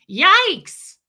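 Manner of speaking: loud, high comic yelp; mock-terrified outburst; startled yelp. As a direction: yelp as if scared by an order. Retold startled reaction to Sophia.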